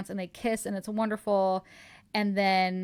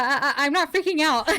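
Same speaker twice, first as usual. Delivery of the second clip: high, loud mock protest breaking into laughter; flustered denial; 6 semitones higher, 6 dB louder than usual. She insists to him she is fine, flustered and laughing. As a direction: play up a stammering denial, half laughing.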